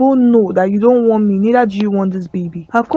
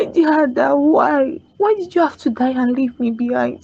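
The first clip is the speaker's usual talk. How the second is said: tearful grief; 3 semitones higher than usual. Acted. Crying over dead sister Ada.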